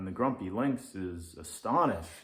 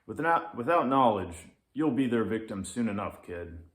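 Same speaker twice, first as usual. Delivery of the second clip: annoyed; 5 dB louder than usual. Acted.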